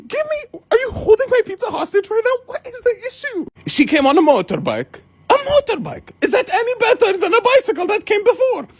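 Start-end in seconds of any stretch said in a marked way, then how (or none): 0.1-3.5 exasperated customer. Retold or imitated. Acted exasperated customer quote.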